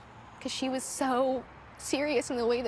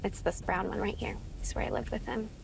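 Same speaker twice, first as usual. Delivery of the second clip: hushed; 4 dB quieter than usual. Real, not acted. Showing the house where she lived, hushed. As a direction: voice dropping to a hush. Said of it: "I don't know why I'm getting emotional".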